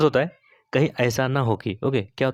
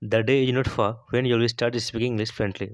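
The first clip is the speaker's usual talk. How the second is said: slow model sentence; much slower than usual. Shown as a demonstration. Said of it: "teacher models English sentence slowly".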